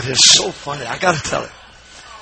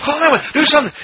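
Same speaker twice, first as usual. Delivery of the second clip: high, hammed-up plea; mock tearful panic; 12 semitones higher, 4 dB louder, much faster than usual. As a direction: imitate someone crying out for help. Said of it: "and he's crying".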